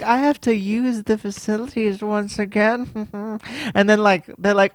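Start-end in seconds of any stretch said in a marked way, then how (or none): 0.0-3.4 mock-posh club member; lightly hammed-up posh excuse; weirdly posh. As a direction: put on an affected posh accent. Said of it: "They're, like, weirdly posh".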